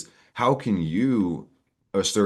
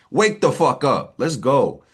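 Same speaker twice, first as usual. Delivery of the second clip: rallying shout; 7 semitones higher, 5 dB louder, slower than usual. Acted. Rallying viewers to wake up.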